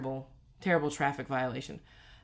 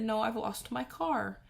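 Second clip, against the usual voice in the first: tearful and distraught; 8 semitones higher, slower than usual. Retold or imitated. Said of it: "I was just in hysterics".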